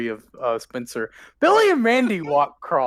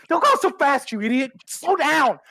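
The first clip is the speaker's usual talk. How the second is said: raised, high-pitched scolding yell; shouting after someone; 7 semitones higher than usual. Acted. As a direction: call crossly after someone walking off. GM voices Billy shouting after Mandy.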